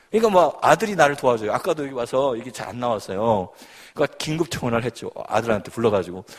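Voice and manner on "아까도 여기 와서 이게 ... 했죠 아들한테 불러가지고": ordinary talk, nothing marked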